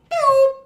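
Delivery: loud, high mouth-made gunshot noise; mock gunshot. Telling friends about the traffic stop, loud mock gunshot. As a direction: fire off a cartoon pew. Mimics a gun at the cops.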